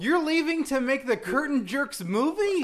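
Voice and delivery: high, loud, disbelieving question; mock incredulous outrage. Host hearing why his co-host is leaving, mock disbelief. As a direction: blurt it out, scandalized.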